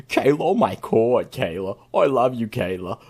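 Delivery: lightly put-on impression, pleading; mock-lovestruck imitation of him; imitating the man. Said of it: "when I try to sound like him".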